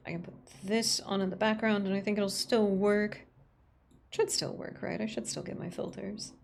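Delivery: crunchy bitcrushed filter; bitcrushed, crunchy digital voice. Real, not acted. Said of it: "Do I sound all crunchy?".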